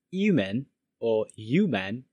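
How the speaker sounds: HUMAN said as "yoo-mun"; dropped H. Shown as a demonstration. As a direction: say "human" without its H. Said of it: "often pronounced".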